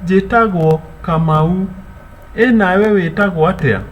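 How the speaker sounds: "Karibu. Wetagwo atia?" high and bright; welcoming a visitor and asking their name; welcoming question. Shown as a demonstration. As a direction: call it out to the guest. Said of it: "the visitor will say".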